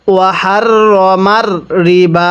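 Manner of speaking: very slow chant of আহাল্লাল্লাহুল বাইআ; tajweed recitation; Quran recitation. Shown as a demonstration. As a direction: draw it out in tajweed style. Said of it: "কিভাবে পড়তে হবে?".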